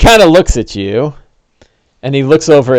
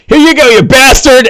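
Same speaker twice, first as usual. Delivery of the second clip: much higher, louder gleeful jeer; taunting yell; 10 semitones higher, 4 dB louder than usual. Acted. Treacherous NPC throws a javelin at the player, taunting yell. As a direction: hurl the insult with the javelin. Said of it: "he goes".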